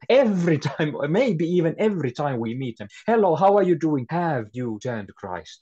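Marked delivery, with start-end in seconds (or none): 3.1-5.6 bold greeting. Retold or imitated. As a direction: greet them boldly, then ask. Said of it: "If we speak like this to them".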